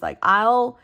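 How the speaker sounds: ordinary talk, nothing marked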